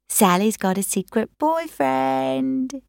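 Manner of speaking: talking through a mouthful of cake; teasing with mouth full. Acted. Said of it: "with his mouth full of cake".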